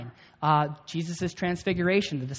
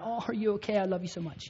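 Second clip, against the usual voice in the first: mock tender comfort; 4 semitones higher, 4 dB quieter than usual. Dad comforting hurt child.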